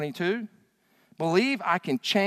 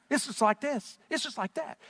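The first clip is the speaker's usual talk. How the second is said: put-on valley girl; 6 semitones higher, 5 dB quieter than usual. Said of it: "You sound like a little valley girl".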